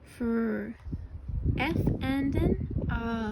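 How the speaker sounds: put-on stretched Fr sound for a child. Shown as a demonstration. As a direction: sound out the F-R blend slowly. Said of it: "that frog starts with?".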